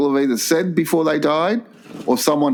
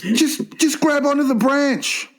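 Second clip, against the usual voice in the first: high, slow, falsely reassuring voice; reassuring last words; 11 semitones higher than usual. Retold or imitated. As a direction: coax him slowly and sweetly. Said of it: "Next one is".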